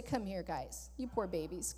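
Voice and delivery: soft, cooing mock comfort; a soft sarcastic baby-talk to scared disciples; mock coddling. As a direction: coo at them like babies, tongue in cheek. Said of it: "I'm being a little facetious here".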